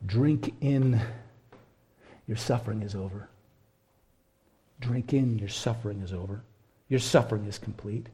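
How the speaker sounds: soft, gentle reassurance from a father; tender comfort. Acted. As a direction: softly soothe a suffering son. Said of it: "something like this".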